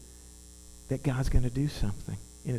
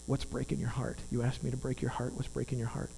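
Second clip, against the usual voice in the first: soft voice of God; 2 semitones lower, 7 dB quieter than usual. Retold or imitated. God's words voiced in story.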